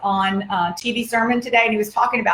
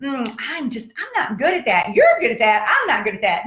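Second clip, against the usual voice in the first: mock whiny excuse. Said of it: "Here's what I hear a lot".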